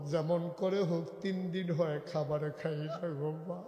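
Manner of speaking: subdued pleading with a breaking end; tearful child. Acted. Starving child begging mother for food, subdued tearful plea. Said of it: "বাচ্চারা কাঁদতেছে".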